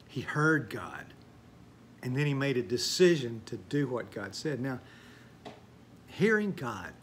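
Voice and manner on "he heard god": whispered for emphasis; a reverent whisper; hushed. Acted. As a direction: drop to a whisper. Hushed emphasis on hearing God.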